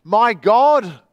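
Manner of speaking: loud, high howl. A narrator's reading. Man alone in the dark howls to God, loud. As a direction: cry out to God in anguish. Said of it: "he howled again".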